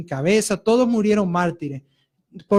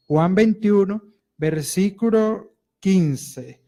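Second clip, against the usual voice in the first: slowed right down so the flock can find "Juan veintiuno, versículo quince"; slow dictation; slower than usual. Shown as a demonstration. Preacher slowly repeating the verse for the congregation to find. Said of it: "Vamos a leer Juan veintiuno".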